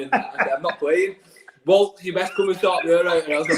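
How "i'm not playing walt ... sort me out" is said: higher, mock-upset pleading; hammed-up worked-up refusal; retold near-tears. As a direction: act out being close to tears, lightly. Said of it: "nearly crying".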